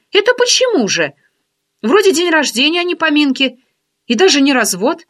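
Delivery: teasing curiosity, lifted voice; friend's voice. Acted. Oksana joking.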